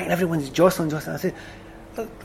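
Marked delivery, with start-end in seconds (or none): 2.0-2.1 laughing through the word; chuckling retold protest.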